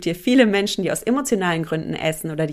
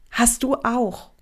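whisper; 3 semitones higher, slower than usual. Real, not acted. Tells listener everyone fears.

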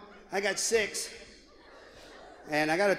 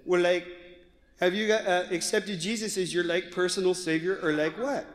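a hint of valley girl, lower; lazy teen valley girl talk; 3 semitones lower than usual. Daughter quizzing her friend, light valley girl voice. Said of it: "a valley girl".

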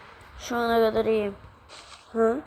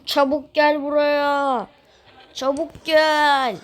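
drawn-out call; 4 dB louder, slower than usual. Real, not acted. Calling someone over in game.

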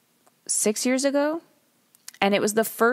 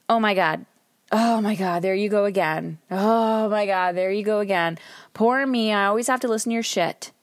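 playing the victim. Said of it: "do you play the victim and say".

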